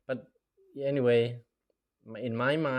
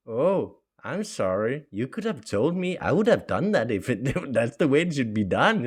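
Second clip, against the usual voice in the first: mock apology; 3 semitones higher, 5 dB louder than usual.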